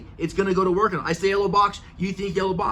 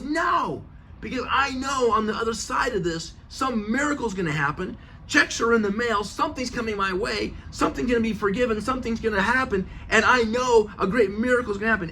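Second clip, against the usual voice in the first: higher, eager and sure of a miracle; excited faith; 5 semitones higher than usual. Retold or imitated. Friend insisting a miracle is coming, high and eager. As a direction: sell the coming miracle with glee. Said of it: "He was just, like, hysterical".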